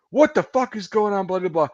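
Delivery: high-pitched imitation of an irate superior; mock-irate, pitch jumping up; angry retold demand.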